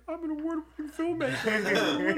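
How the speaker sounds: slow, high, grandly mock-proud; hammed-up pompous boast; mock self-importance. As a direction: puff himself up as the great filmmaker while stuck at the register.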